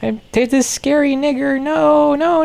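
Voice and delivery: put-on high, squeaky frightened girl voice; high squeaky mock-terrified doll; squeaky girl toy voice. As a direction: play a shrieking little toy character. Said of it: "she's just like".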